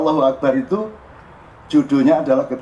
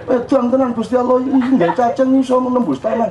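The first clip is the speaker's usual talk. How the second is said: put-on high, excited childlike awe; a young child marveling at God's work; child's amazement; 9 semitones higher than usual. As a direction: sound like a small boy astonished by nature.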